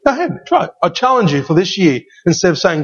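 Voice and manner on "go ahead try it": excited dare. Real, not acted. Preacher daring the congregation.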